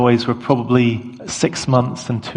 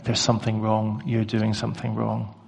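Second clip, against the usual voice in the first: soft, slightly lowered murmur; gentle voice; 7 dB quieter than usual. Acted. God gently prompting David about his sin, soft voice. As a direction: say it as a quiet inner prompting. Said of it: "God's gentle voice just saying".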